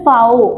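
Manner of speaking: फाओ begun with an "f" sound; German letter V. Shown as a demonstration. Teacher showing students the letter V, फाओ as "fow". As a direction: say फाओ as "fow", not "vee". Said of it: "वी को हम बोलते हैं".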